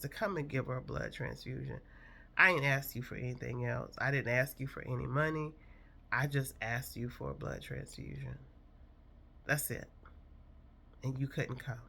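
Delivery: holding back tears, fast then fading; choked up. Real, not acted. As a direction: voice tight with emotion. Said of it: "I'm kinda getting choked up".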